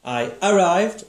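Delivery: I arrived, said slowly with the stress on the second syllable of arrived; spoken demo. Shown as a demonstration. Teacher showing pupil how the word is spoken. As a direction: say I arrived slowly like normal speech. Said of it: "How do you say it?".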